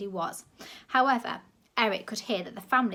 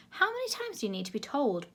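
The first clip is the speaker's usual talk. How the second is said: bawled; 6 semitones higher than usual. A narrator's reading. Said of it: "bawled Frown".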